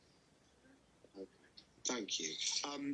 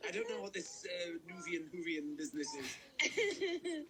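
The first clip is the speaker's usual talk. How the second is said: laughing posh retort. Retold or imitated. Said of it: "I was like".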